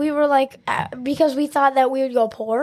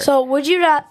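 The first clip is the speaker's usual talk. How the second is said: talking through hiccups; hiccuping; 3 semitones higher, 5 dB louder than usual. Real, not acted. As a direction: hiccup breaking the words. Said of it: "my hiccups".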